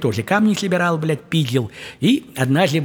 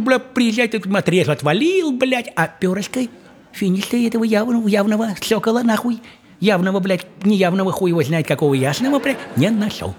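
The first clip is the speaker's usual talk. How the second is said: high grumbling mock father; lightly voiced fed-up dad; father complaining; 6 semitones higher than usual. Father explains he found no feather, high grumbling mock voice. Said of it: "он говорит".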